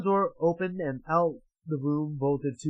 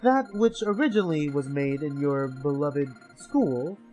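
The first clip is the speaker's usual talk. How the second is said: higher, sly, taunting announcer voice; gloating captor over a speaker; mocking villain host; 5 semitones higher than usual. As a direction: sneer at them like a game master. Villain announcer addresses players.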